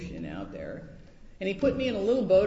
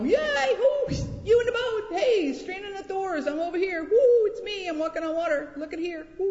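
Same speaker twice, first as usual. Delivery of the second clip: high, loud showoff yelling; mock showy shouting; 13 semitones higher, 6 dB louder than usual. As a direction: call out like a grandstanding show-off. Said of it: "He didn't walk up and go".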